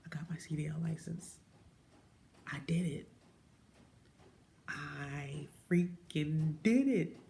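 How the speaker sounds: breathless disbelieving whisper, slowing at the end; awed whisper. Retold or imitated. Recalling getting her CDL, whispered disbelief. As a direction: whisper it like you can't believe it. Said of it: "I was like".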